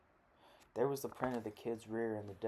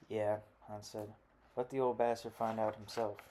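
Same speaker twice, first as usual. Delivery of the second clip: louder, bitter agreement; loud scorn; 4 dB louder than usual. Acted. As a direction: spit it out with contempt. Hans angrily agrees.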